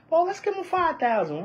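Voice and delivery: softly voiced offhand offer; mock casual suggestion. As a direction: toss it out softly, as someone imitated. Imagined officials haggling over payout.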